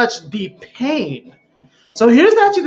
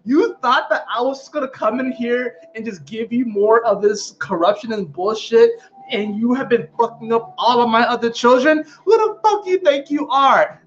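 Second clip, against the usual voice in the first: indignant; 4 semitones higher than usual. Retold or imitated. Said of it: "Jupiter's gonna be like".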